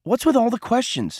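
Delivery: irritated. A narrator's reading. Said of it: "Cole found himself irritated".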